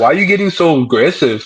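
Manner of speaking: ordinary talk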